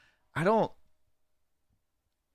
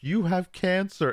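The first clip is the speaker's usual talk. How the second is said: higher, slow creepy toy voice; creepy Woody; 8 semitones higher than usual. Retold or imitated. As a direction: drag it out like a haunted toy. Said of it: "He's like".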